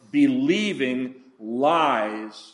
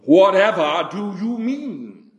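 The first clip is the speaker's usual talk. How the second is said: put-on British accent; 2 semitones higher, 3 dB louder than usual. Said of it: "in his very British accent".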